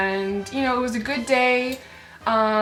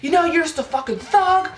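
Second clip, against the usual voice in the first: mock screaming. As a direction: mimic an angry man berating a kid. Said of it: "He starts screaming at him".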